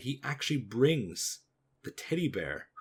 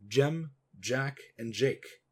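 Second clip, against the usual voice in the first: names called out, mildly raised; measured roll-call, a little raised; 3 semitones higher, 3 dB louder, slower than usual. Retold or imitated. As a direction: call each name as a summons. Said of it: "Alonzo's Fowl calls out".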